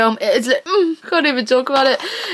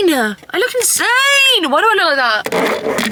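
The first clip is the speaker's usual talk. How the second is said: higher, slow drawn-out laughing cry; laughing squeal; 7 semitones higher, slower than usual. Real, not acted. Seeing herself on camera, laughing squeal. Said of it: "do I look insane?".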